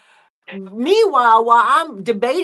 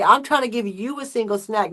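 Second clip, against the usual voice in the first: ordinary delivery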